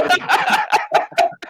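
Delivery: a high, breathy burst of laughter; laughing. Real, not acted. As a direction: break into real laughter at the joke. Host bursts out laughing at joke. (tertawa lepas)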